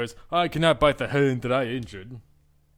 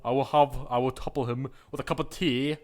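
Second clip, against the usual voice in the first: put-on British accent. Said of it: "Oh, I can't do British".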